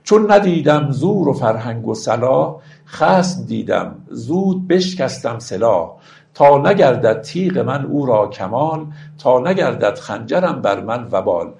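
slow, measured verse reading; stately classical verse delivery; poetry recitation. Acted. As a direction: recite the couplets with drawn-out, metered phrasing. Recites verse between explanations.

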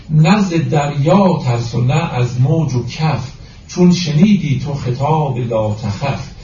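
slow, measured verse reading; deliberate, metrical Persian verse delivery; poetry recitation. Acted. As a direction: recite the couplet with drawn-out syllables.

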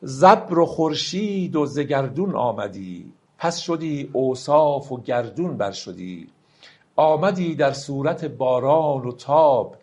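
slow, solemn verse reading; slow poem recital. Acted. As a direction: let each line of the poem ring out slowly. Recites Rumi verse slowly. (دکلمهٔ آرام و باوقار شعر مولانا)

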